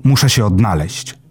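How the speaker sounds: exclaiming. Acted. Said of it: "wykrzyknął pan Patyczak".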